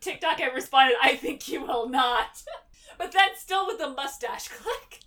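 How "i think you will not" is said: haughty retort. Retold or imitated. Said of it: "if Jack had said".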